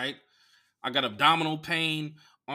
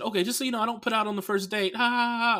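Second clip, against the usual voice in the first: put-on quoting the girl; 9 semitones higher, faster than usual. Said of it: "She said".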